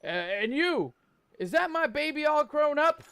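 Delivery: a lightly voiced mother, moved and tender; mother's voice. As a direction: reach for your grown son with a little lift.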